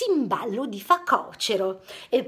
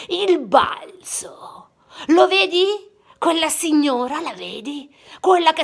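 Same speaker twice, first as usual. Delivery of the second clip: whispered lion master; 3 semitones higher, 5 dB louder than usual. Acted. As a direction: whisper like a wise old master.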